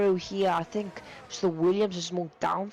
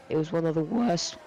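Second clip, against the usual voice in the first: voice crack. Real, not acted. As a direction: voice cracking mid-sentence. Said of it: "That was a voice crack".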